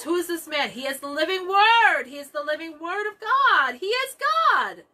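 rising preacher fervor. Pretend. Preacher proclaims to congregation, building to a ringing shout. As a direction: build the declaration to a ringing peak. Preacher's climax, disciples' awe.

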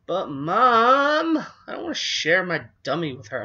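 high, loud crying whine; whining. A narrator's reading. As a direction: wail at mom like a hurt child. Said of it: "Lindy whined unhappily".

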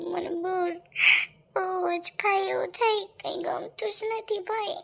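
sobbing through the words, voice breaking; crying. Acted. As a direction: choke out each word between sobs. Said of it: "તું રડતી નહીં".

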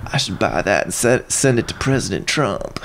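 dryly underplay it, quietly; imitating Bill Clinton. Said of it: "He goes".

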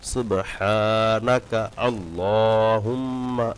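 very slow, elongated recitation; slow recitation demo. Shown as a demonstration. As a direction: draw the words out like a teacher showing the madd. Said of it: "এভাবে পড়তে পারেন". (ধীরে টেনে পড়ে দেখানো)

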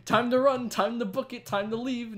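high, loud frantic escape; frantic yelling. Real, not acted. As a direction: yell it while fleeing. Fleeing players in game.

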